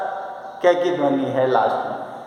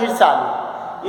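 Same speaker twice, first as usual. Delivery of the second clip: ईर्षालु said slowly, syllable by syllable; teacher slowly sounding out ईर्षालु; slow spelled-out word; 3 semitones lower, slower than usual. Shown as a demonstration. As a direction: draw out ईर्षालु for the class. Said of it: "क्या लिखा है".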